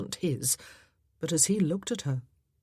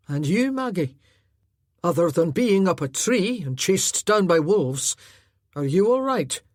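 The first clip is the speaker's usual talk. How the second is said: gentle foster brother; 6 dB louder than usual. Acted. Foster brother greeting the lass gently, friendly. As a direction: greet her kindly.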